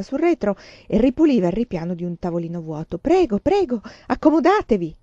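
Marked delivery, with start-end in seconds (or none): 3.0-4.9 high, eager, bowing host voice; fawning shopkeeper. A narrator's reading. Tea shop owner fawning over two young customers. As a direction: welcome them like honoured guests.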